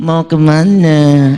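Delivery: very loud, effeminate, womanly put-on voice. Explaining that a possessed person's voice changes, demonstrating a man doing a woman's voice. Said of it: "kalau laki-laki suara gini".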